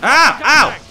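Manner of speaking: real ouch. Real, not acted. Gamer yelping as his character gets hit, sharp ouch. Player's character takes hits.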